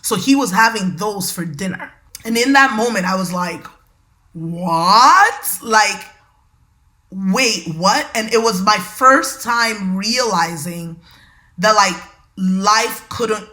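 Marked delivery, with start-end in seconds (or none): 4.3-8.1 stunned rising what; shocked. Retold or imitated. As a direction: caught completely off guard. Shock at hearing they're out of food.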